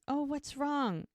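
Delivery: high, drawn-out mock concern. Friend notices she's been crying.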